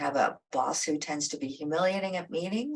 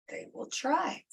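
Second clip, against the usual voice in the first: whispered warning; 7 semitones higher, 6 dB quieter than usual. Real, not acted. Warning aside.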